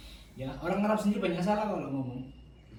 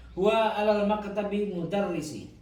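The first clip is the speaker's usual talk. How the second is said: slow, raised dictation pace; slow model reading; 3 semitones higher, 3 dB louder than usual. Shown as a demonstration. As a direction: read it out slowly for the class. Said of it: "Saya baca jenengan anu ya". (bacaan contoh lambat)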